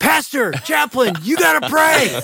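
high, frightened, scared yelling. Retelling guys on a lightning-struck plane urging prayer: imitating guys yelling. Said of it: "all these guys around me start yelling at me".

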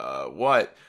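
very low, acted-out nervous laughing voice. Retelling a guard's reaction to a man making timeout signs: imitating a nervous laugh. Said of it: "He's kind of like nervously laughing".

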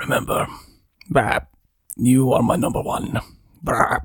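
female voice for a dark goat god. Game master voicing a dark goat speaking to Fogrum, dark goat voice. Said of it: "A dark goat speaks to you and says".

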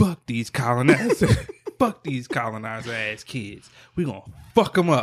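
put-on whisper that is too loud. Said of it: "Thinking she's whispering".

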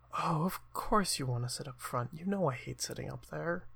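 soft, hushed, close half-whisper. A game narrator voices a character following a player to the front row, whispering. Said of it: "sort of whispers to you".

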